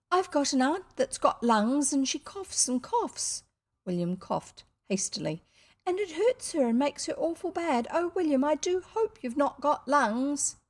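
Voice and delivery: put-on high fretful little girl; anxious little girl. A narrator's reading. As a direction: plead with worry.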